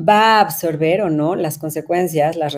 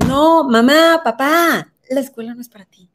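much higher, louder call to parents; urgent appeal; 7 semitones higher, 5 dB louder than usual. Real, not acted. Speaker calling out to parents that school isn't theirs, urgent. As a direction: wake parents up with a sharp plea.

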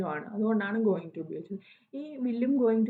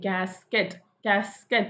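കാസ്കറ്റ് slowly, syllable by syllable; pronunciation demo. Shown as a demonstration. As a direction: model കാസ്കറ്റ് slowly for learners. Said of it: "എന്നാണല്ലോ പറയുന്നത്".

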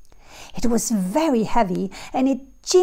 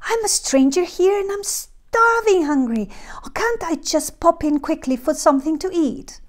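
hushed, high, pleading whisper; whispered plea; 7 semitones higher than usual. A narrator's reading. Jack whispering his plea to the old woman. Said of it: "Jack begged".

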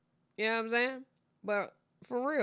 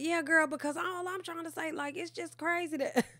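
imitating friend; 8 semitones higher than usual.

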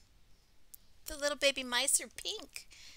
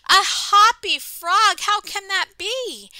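high, very loud astonished robin; excited cry; 8 semitones higher, 20 dB louder, slower than usual. Acted. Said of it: "the robin cried excitedly".

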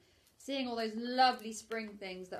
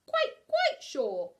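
whisper; 6 semitones higher, 10 dB louder, much slower than usual. Acted. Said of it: "said Pooh".

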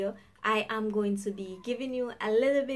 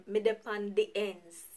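Jamaican patois phrase. Shown as a demonstration.

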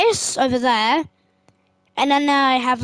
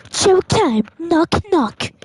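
Stewie voice; 3 semitones higher, slower than usual. Acted. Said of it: "that Stewie voice".

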